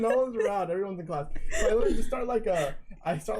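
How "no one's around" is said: laughing through it. Real, not acted. Repeats phrase, laughing.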